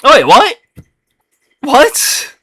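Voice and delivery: sudden high startled "what"; surprised. Real, not acted. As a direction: caught off guard, confused. Confused reaction to the review.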